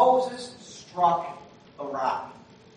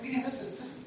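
Moses fed up; 5 semitones higher, 6 dB louder than usual. Retold or imitated. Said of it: "I can just kind of feel Moses like".

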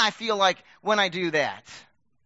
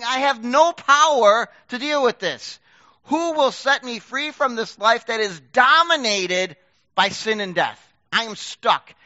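desperate plea; 5 dB louder, slower than usual. Acted. Preaching Paul's desperate cry.

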